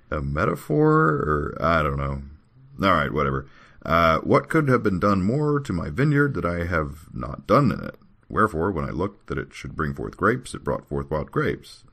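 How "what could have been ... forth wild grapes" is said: scripture reading. Acted. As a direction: declaim the verse. Reads scripture aloud.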